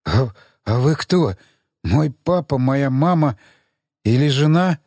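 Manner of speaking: slurred, tipsy mockery; drunk. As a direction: smirk through it, drunk. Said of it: "пьяно усмехнулся".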